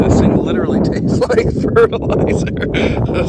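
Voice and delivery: disgusted laugh through words. Real, not acted. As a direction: laugh while grossed out. Coin tastes like fertilizer.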